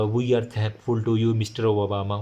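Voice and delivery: very slow, halting reading off a chit; Nawaz Sharif reading. Retold or imitated. Teacher mocks a prime minister reading his speech, slow and stilted. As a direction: plod through it word by word like reading a slip of paper. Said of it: "जिस तरह नवाज शरीफ पढ़ने शुरू कर दी थी".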